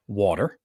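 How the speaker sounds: careful, slow "water" without the New York vowel; practised standard "water". Shown as a demonstration. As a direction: say "water" with an open ah, neatly. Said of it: "The way I said water just now".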